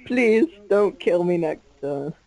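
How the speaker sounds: a slow, half-serious plea; mock begging. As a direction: plead slowly for mercy, playfully. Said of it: "I'm begging".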